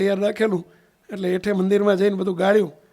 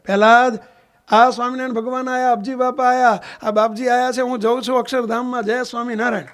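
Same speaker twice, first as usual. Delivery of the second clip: calling out; 2 semitones higher than usual. Retold or imitated. Dying old man sits up in bed telling Prahlad of his departure, calling out. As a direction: call to your son and announce the visitors. Dying father calls out, acted.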